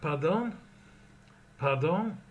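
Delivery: Pardon said with a rising question tune. Shown as a demonstration. Teacher models Pardon as a question. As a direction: lift the end of Pardon like a question. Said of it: "number two".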